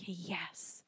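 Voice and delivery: very soft, low satisfied yes; quiet relish. Retold or imitated. Shopper to herself at empty outlets, quiet relish. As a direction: savor it privately, under your breath.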